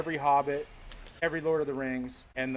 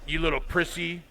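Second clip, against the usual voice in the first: lightly voiced Darth Vader. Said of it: "Darth Vader's like".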